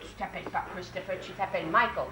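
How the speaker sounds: gentle correction. Real, not acted. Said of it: "teacher correcting child".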